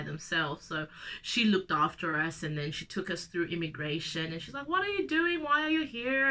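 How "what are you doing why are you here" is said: flight attendant voice. Retold or imitated. Flight attendant quizzing the kids.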